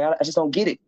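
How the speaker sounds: a lightly voiced curious fellow inmate; curious inmate friend. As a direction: voice pitched well up, asking eagerly. Friend voiced in a prison story.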